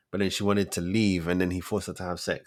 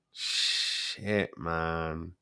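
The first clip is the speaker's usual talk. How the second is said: whispered; 4 semitones lower, 6 dB quieter than usual. Real, not acted. Stunned reaction, repeated.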